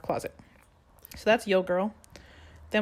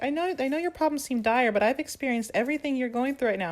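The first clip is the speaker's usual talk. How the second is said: higher, preachy mother voice; patronizing mom; 6 semitones higher than usual. Retold or imitated. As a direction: lecture like a mom who's seen it all. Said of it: "Veronica's mom's like".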